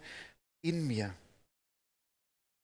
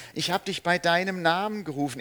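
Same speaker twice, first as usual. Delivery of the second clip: emphatic call by name; 4 semitones higher, 7 dB louder than usual. Acted. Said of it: "spricht Gott ja beide Namen aus".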